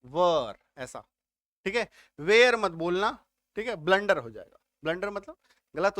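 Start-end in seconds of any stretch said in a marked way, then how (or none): 0.0-0.6 वर said short like "var", not "wear"; pronunciation of were. Shown as a demonstration. Teacher shows the class the right way, वर as "var". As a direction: say वर with a short flat vowel, like "var". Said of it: "इसका उच्चारण होगा".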